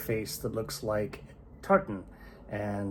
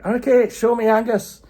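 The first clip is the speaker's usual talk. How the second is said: louder, higher fighting call; loud challenge; 13 semitones higher, 11 dB louder than usual. Acted. Giant at the door demanding Angus, loud and high. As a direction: demand your opponent.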